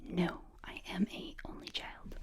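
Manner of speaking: normal talking voice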